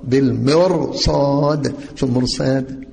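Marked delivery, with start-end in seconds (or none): 0.0-1.7 بالمرصاد said slowly, with the راء kept light; careful pronunciation. Shown as a demonstration. Teacher modelling the correct recitation, slowly. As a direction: spell out بالمرصاد without a heavy راء. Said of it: "ما نقولش طبعًا المرصاد مخمر راء".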